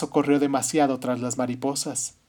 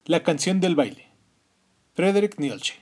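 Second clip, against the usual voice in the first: whisper; 4 semitones higher than usual. Acted. Title announced in whisper.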